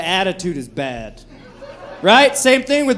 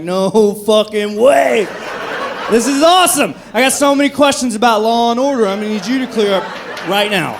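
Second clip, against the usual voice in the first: excited fan; 2 semitones higher than usual. Retold or imitated. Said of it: "and I'm like".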